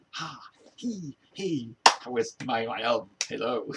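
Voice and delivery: lightly voiced cocky singer; mock Pauly. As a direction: ham up a clueless singer. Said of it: "He's like, he's just trying to be".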